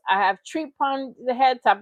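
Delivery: mock Jamaican accent; lightly voiced Jamaican patois; imitated Jamaican accent. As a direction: parody his brief switch into Jamaican accent. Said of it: "I'm Jamaican for five seconds".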